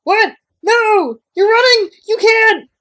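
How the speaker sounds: hammed-up panic; panicked Christian. Christian voiced in a panicked outburst.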